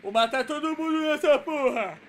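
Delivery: loud fired-up yell; hyped shout. Real, not acted. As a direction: shout it, pumped for the round. Hyped shout starting round. (grito empolgado)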